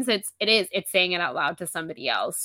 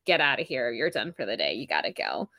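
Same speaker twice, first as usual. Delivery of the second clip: a hint of a low bouncer, sinking lower; lightly voiced bouncer; 6 semitones lower than usual. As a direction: order them out, dropping in pitch. Bouncer throwing her out.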